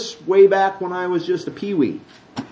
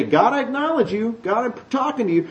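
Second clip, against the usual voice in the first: mock pious prayer; 5 semitones higher, 5 dB quieter than usual. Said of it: "I'm doing something today".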